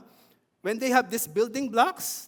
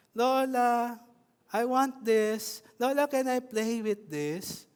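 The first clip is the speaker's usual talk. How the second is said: slow, pleading little-grandchild voice, calling "Lola"; preacher lightly mimicking a grandchild asking Lola; imitating a grandchild; 3 semitones higher, slower than usual. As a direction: ask Lola for things like a small kid. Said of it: "That's how they sound".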